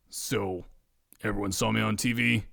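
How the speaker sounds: low, quiet, sheepish question; deflated and low; subdued. A narrator's reading. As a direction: ask it softly, embarrassed. Humbled Ed after jail.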